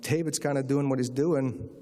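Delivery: mildly sheepish confession, with hesitations; understated retold sheepishness. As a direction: imitate someone bashfully claiming credit, pausing before the punchline. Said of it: "sort of sheepishly".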